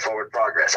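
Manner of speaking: "forward" said for-werd, plain; his "forward". Shown as a demonstration. Host asked, he demonstrates his "forward". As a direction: demo of how he says "forward". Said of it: "that's the way I say it".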